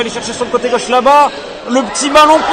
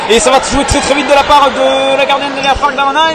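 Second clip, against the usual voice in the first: excited sports commentary; 4 semitones higher than usual. Real, not acted. Fast counterattack play-by-play.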